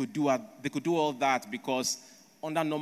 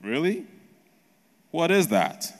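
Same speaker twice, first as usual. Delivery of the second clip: higher and louder, curious mock surprise; 5 semitones higher, 5 dB louder than usual. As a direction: act intrigued, asking what it is. Chinese ask about the offer.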